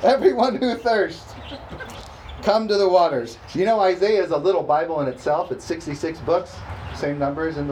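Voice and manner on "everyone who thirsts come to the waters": booming call. Acted. Booming scripture call after He-Man joke.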